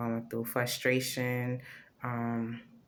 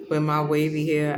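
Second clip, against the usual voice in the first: laughing through words; 3 semitones higher, 7 dB louder than usual. Real, not acted. Laughing about her hair.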